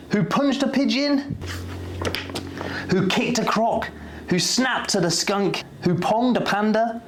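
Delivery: rising chain-reaction excitement; building excitement. A narrator's reading. Chain reaction climbing in pitch.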